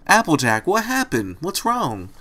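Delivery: panting, high and worried; out of breath. Acted. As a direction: ask it while running hard. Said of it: "panting from the exertion".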